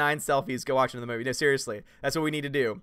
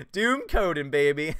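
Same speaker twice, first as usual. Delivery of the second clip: put-on louder, hyped "Doom Coden, baby"; proud proclamation; 4 dB louder, slower than usual. Shown as a demonstration. Embracing a fan's suggested name, louder hyped cheer. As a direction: proclaim the new name with glee.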